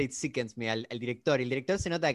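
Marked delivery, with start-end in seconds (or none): 0.0-0.7 quoted Shatner. Retold or imitated. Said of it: "Shatner dice".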